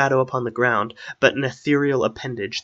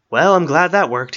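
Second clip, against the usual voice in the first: higher, louder relieved line; relieved exclamation; 5 semitones higher, 8 dB louder than usual. A narrator's reading. Strider, wet and panting, tells Arwen it worked, relieved. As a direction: call it out, glad it worked.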